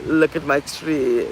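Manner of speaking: slow, drawn-out put-on inflection; entertainment voice. Showing off the tree for entertainment, slow affected inflection. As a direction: stretch it out in an affected show-off voice. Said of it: "changing the inflection of your voice just for entertainment".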